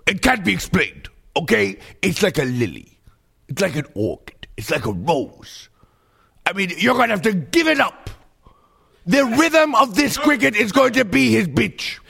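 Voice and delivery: lightly voiced sassy diva, delighted with nature; a hint of a camp diva loving the outdoors; a singer. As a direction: purr it like a fierce diva. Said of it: "a singer".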